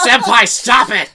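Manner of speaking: slow, drawn-out anime wail; anime cry. Pretend. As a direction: wail at senpai like an anime girl. Anime plea as enemy attacks.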